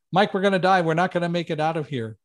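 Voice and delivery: retold panic, voice jumping up; mildly panicked cry of a scared friend; imitating a friend's panic on the stairs. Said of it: "in this very panicked voice".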